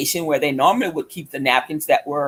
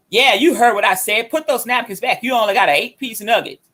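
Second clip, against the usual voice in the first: insistent mock scolding, slightly raised; retold yelling; 4 semitones higher than usual. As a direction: imitate a granny repeating her order, quicker at the end. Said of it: "Yelling and screaming at me".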